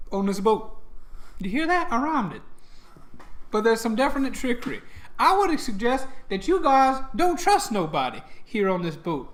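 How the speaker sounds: lightly put-on, lilting deity voice; lightly voiced trickster god. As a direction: warn them like a teasing god. Plays the god warning the party.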